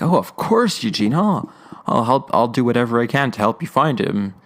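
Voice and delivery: a light hint of a kind old mentor; lightly voiced gentle reassurance; kindly Whit. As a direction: Whit offering Eugene help, lightly kind. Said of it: "Whit is so nice in this episode".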